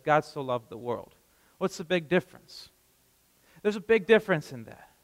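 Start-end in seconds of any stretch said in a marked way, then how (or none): 0.0-1.1 "the world" said lower, as the true reading; stress on the world. Shown as a demonstration. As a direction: set "the world" against the personal version. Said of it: "instead of".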